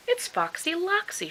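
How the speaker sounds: high frightened cry of recognition; shriek. Acted. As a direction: shriek out the fox's name in alarm. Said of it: "she shrieked".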